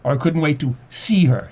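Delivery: "see" pushed up and falling; stress on see. Shown as a demonstration. Host giving a third reading with stress on "see". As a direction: punch "see" and let it drop. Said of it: "which word you emphasize".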